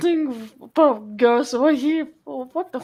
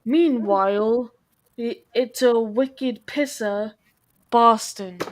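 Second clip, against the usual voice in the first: put-on slow Boston accent reading. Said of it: "photo that says".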